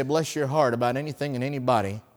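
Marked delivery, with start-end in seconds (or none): 0.0-0.7 quiet, sweet "Bless your heart"; soft Southern pity. Shown as a demonstration. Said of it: "you can say".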